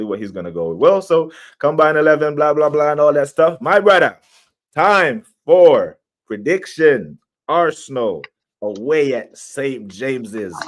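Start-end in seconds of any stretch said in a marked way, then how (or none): 3.6-10.6 slow, deliberate segment call; announcer. Real, not acted. Host calling co-host for a score prediction, slow announcer style.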